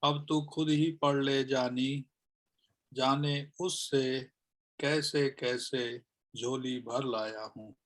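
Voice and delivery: measured, deliberate shayari delivery; poem recitation. Acted. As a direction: recite each phrase with pauses between. (शायरी पढ़ने का ठहरा अंदाज़)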